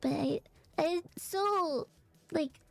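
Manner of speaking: hoarse froggy allergy throat; a rough, froggy voice from allergies. Real, not acted. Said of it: "I hate being this froggy".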